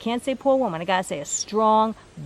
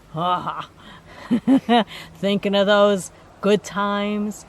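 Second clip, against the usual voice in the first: slow words after a chuckle; laughing fondly; 4 dB louder, slower than usual. Retold or imitated. Relaying his memory of good times, laughing. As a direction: break into a laugh, then reminisce.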